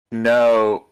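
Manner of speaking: lightly voiced know-it-all mate giving unwanted directions; a hint of a fussy helper talking over the work; helpful Schubert. Mate chipping in with helpful advice, lightly voiced. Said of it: "just sort of helpfully going".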